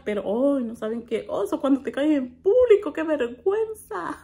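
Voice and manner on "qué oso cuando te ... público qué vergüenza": embarrassed exclamation. Real, not acted. Telling viewers about falling in public, mortified exclamation.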